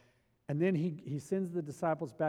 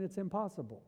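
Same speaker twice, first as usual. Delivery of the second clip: resigned mutter; 6 dB quieter than usual. Acted. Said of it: "scratching their head saying".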